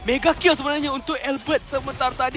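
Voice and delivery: screaming hype call, very high and loud; fighting game announcer. Acted. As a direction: roar it like an esports caster. Kill streak shouted out.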